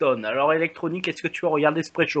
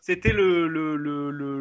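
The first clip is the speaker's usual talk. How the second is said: laughing; much slower than usual. Real, not acted. Laughing while stalling over the date.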